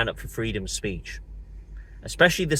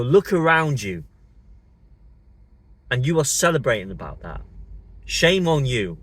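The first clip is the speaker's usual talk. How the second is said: angry shout; 3 semitones higher, 5 dB louder than usual. Real, not acted. Ranting at opponents who celebrate.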